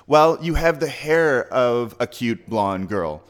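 drawn out, mock-sweet taunt; slow teasing jab. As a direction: slowly needle him about his hair. Teasing the wrestler on plane.

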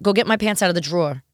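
New York "drawer" squeezed to droar; everyday New York household line; New York accent. Shown as a demonstration. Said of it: "in New York, a good one".

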